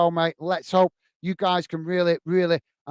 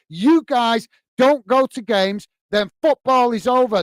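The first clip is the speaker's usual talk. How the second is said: rising impassioned rant; 3 semitones higher, 4 dB louder than usual. Real, not acted. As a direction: climb to a rallying cry, slowing on the last lines. Rallying fans against governing bodies.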